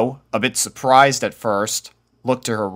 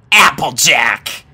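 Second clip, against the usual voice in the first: ominous hiss; 3 semitones higher, 6 dB louder, slower than usual. A narrator's reading. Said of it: "Rainbow hissed ominously".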